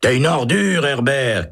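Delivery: high indignant yell; angry shout. A narrator's reading. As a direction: spit the insult across the block. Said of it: "crie Holt".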